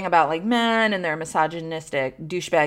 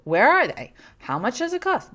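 nosy fans asking; 5 semitones higher than usual. Retold or imitated. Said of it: "Everybody always asks me".

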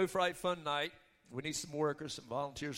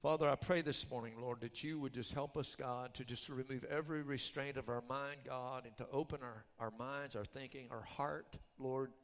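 softer, run-on earnest praying; prayer; 3 semitones lower, 4 dB quieter than usual. Real, not acted. Preacher asks God to open hearts, soft earnest prayer. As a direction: pray it in a lowered, even voice.

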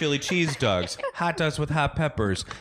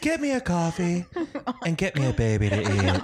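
Miranda impression. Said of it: "Was that a good Miranda?".

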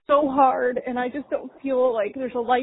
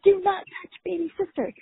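put-on toddler voice; 6 semitones higher than usual. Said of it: "She'd be like".

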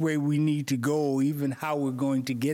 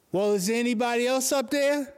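higher, sheepish ask to the sky; comic higher plea upward; hopeful punchline; 6 semitones higher than usual. Acted. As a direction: deliver the punchline with doubtful hope. Punchline, man asks again.

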